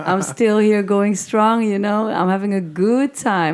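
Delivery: hoarse voice. Real, not acted. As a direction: push through a lost voice. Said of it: "I lost my voice a bit".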